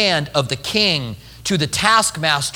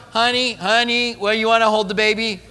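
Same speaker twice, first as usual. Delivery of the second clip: pleading husband; 3 semitones higher than usual. Acted. Husband passing baby to wife.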